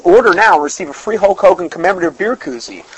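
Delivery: fast pitchman sales voice; infomercial. Pretend. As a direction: rattle it off like a TV ad. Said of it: "doing my whole advertising ploy".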